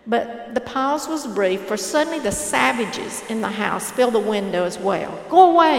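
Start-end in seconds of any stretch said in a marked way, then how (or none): 5.3-5.8 much louder, higher yell; hostile shout. A narrator's reading. Savages at the window yelling at the intruder, angry loud shout.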